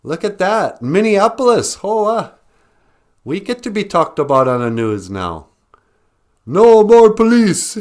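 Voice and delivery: high, loud mock excitement, hollering; hammed-up gawking viewer, high and loud; excited viewers. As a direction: crow it like a thrilled viewer on the news. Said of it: "They go".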